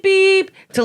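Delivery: high beep sound; imitated horn beep. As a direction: chirp beep like a car horn. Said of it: "he'll go beep".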